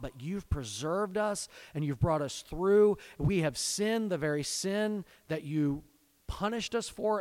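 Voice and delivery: earnest, lifted pleading to God; pleading prayer. Acted. Ezra praying for his people before God, pleading. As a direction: plead for mercy as Ezra would.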